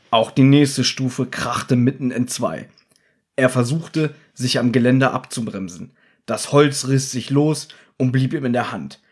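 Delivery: reading a book aloud, steady and measured; story narration. A narrator's reading. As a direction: read it like an audiobook narrator.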